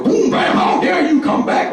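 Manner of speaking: hammed-up wizard rage. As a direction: squawk it like an insulted wizard. Angry wizard voiced in story.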